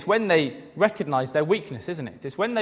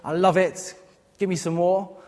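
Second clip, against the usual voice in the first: cheesy mock cheer. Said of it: "cheesy grin, masochistic kind of thumbs up".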